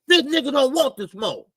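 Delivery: a rapper's voice. Retold or imitated. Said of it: "In my rapper voice".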